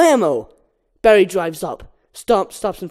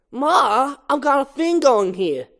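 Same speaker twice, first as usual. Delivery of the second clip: Barry voiced; 6 semitones higher than usual. Barry to mother.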